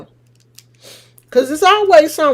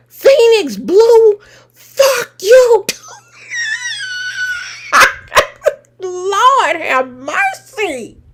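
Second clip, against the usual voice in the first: laughing; 8 semitones higher, slower than usual. Real, not acted. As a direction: crack up while firing back. Laughing at a viewer's insult.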